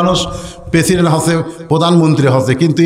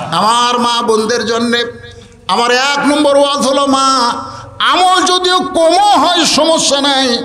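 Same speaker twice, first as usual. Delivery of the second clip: melodic waz preaching. A narrator's reading. Waz preacher chants and exhorts.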